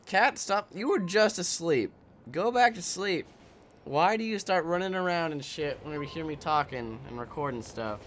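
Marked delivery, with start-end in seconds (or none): 0.1-5.8 raised, higher exasperated voice; exasperated pet telling-off; scolding the cat. Real, not acted. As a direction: tell off a restless pet, pleading and annoyed.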